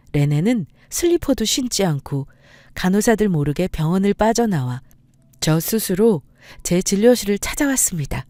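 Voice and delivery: ordinary delivery, nothing marked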